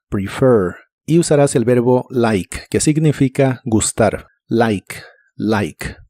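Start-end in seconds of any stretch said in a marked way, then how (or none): 0.1-0.7 "prefer" short i, retracted r at the end; "prefer" end said from the back of the mouth; model word. Shown as a demonstration. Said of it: "lengua lo más atrás que puedas".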